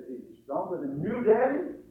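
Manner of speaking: lightly voiced child's question, rising high at the end; little boy. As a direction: ask Daddy with boyish wonder. Little boy questions his father.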